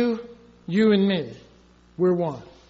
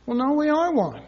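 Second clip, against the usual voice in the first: "are" hit higher with a falling close; stress on are; 4 semitones higher than usual. Retold or imitated. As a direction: insist on "are" in "we are one". Answer insisting on oneness.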